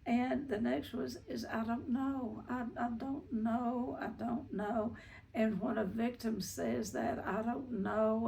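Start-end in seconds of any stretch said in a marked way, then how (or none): 1.5-5.0 mildly whiny, helpless victim; little whiny voice. Retold or imitated. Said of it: "they say it in a little whiny voice". 7.2-8.3 mildly whiny imitation of a victim; little whiny voice. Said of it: "they say it in a little whiny voice".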